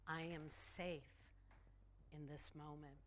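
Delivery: calm affirmation. Shown as a demonstration. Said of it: "And we can affirm".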